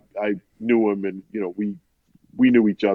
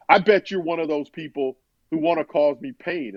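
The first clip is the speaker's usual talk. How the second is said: higher-pitched, accusing retold anger; building anger; 4 semitones higher than usual. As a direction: imitate anger turning on the listener. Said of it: "building this rage and this anger".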